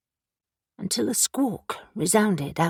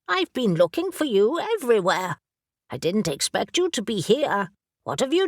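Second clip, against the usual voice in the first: brisk, impatient talking raven; a raven who has searched everywhere and is exasperated; bossy raven. Acted. Raven character voice.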